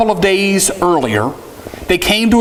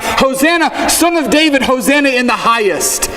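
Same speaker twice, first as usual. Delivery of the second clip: very high, ringing acclaim; crying out; 7 semitones higher than usual. Retold or imitated. Healed man waving branches hails Jesus, high and ringing. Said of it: "he's crying out".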